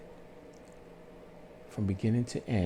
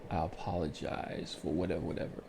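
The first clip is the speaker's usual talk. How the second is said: sincere apology; 5 semitones lower, 6 dB quieter, faster than usual. Shown as a demonstration.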